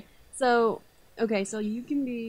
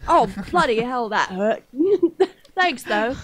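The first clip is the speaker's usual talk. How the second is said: mock Australian accent, louder, with a laugh; a hammed-up Aussie who just got punched; 3 semitones higher, 8 dB louder than usual. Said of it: "That was a little more Australian".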